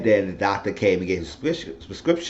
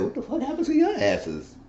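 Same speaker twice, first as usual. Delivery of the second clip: laughing mock; 3 dB quieter than usual. Eddie mocking his goons.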